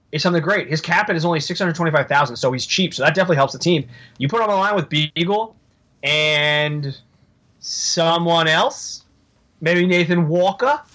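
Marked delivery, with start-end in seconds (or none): 6.0-10.8 put-on slow, drawn-out Boston accent on the names. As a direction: slip into a Boston drawl by accident. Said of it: "I went Boston there".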